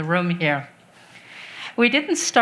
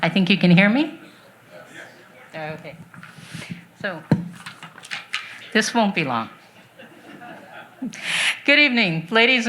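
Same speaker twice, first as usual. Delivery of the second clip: muffled through a face mask; speaking behind a mask. Real, not acted. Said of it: "with my, my, uh, mask on".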